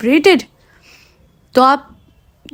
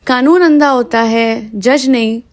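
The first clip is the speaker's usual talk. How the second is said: slow emphatic repeat. Retold or imitated. Podcaster repeating a film line for listeners, slow and emphatic. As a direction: draw out "कानून अंधा होता है", slower and deliberate.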